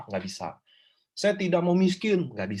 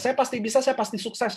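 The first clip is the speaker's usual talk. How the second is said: higher-pitched affirmation demo; raised voice of a demonstrated mantra; example affirmation; 7 semitones higher than usual. Shown as a demonstration. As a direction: recite a sample affirmation, pitched up.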